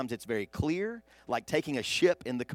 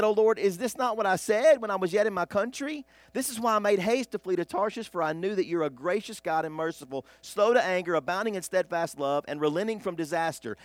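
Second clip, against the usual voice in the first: higher, louder complaining prophet, fading toward the end; angry Jonah; 5 semitones higher, 4 dB louder than usual. Acted. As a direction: Jonah pouring out his grievance. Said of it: "he prayed to the Lord and said".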